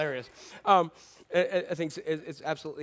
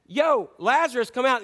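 raised, higher calling voice; casual summons to someone out of sight; 4 semitones higher, 4 dB louder than usual. Acted. Jesus calling Lazarus from the tomb, calling out.

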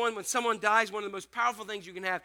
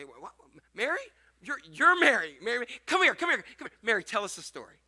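eager crowd calling out, louder; excited calling; 6 dB louder than usual. Retold or imitated. Crowd calling Mary over, louder and eager. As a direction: call her over eagerly, rising.

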